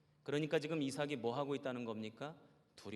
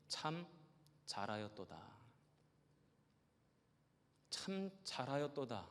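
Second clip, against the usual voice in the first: tender voice of God; 4 semitones lower than usual. Retold or imitated. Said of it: "이런 음성을 들려주셨어요".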